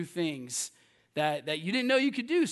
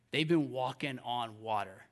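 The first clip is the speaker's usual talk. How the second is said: put-on old believers' voice; 9 semitones lower, 7 dB quieter than usual. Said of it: "this is what I hear in their voice".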